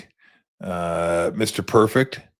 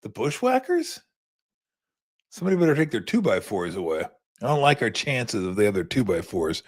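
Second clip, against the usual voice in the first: mock worried under-breath joke; lightly voiced sarcastic aside; 2 semitones higher than usual. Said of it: "And I'm like".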